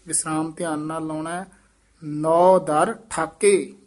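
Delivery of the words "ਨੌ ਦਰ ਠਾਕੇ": slow, measured ਨੌ ਦਰ ਠਾਕੇ, halting after ਠਾਕੇ; halting pause. Shown as a demonstration. Teacher marking the halt, slow ਨੌ ਦਰ ਠਾਕੇ. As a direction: space out ਨੌ ਦਰ ਠਾਕੇ and stop briefly. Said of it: "ਇੱਥੇ ਠਮਕ".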